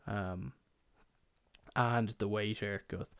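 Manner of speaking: usual speaking voice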